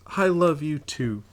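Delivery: put-on high, slow, sweet child voice; little girl voice. Little sister voiced, slow, far.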